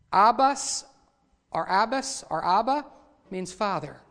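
ordinary delivery

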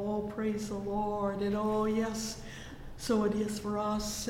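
normal talking voice

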